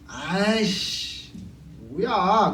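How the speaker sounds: put-on drawn-out defiant kid. Kids defying the elder.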